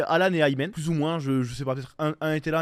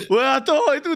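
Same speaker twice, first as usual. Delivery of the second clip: imitating drunk Alan; 7 semitones higher, 7 dB louder, slower than usual. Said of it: "Alan, ivre".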